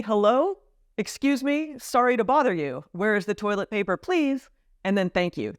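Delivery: polite shopper asking a clerk for help; extra polite request. Shown as a demonstration. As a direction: ask gently and apologetically. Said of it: "what you probably hear".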